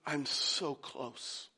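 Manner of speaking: slow, low, very soft; hushed closeness. Acted. Preacher voices God assuring the listener, slow and hushed. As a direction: drop right down and stretch it out.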